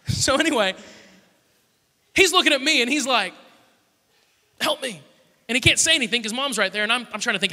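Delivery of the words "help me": high-pitched imitation of a pleading kid brother; mock begging. Little brother silently begging older brother for help, mock pleading. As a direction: plead for rescue as if mum can hear. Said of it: "begging me to help him".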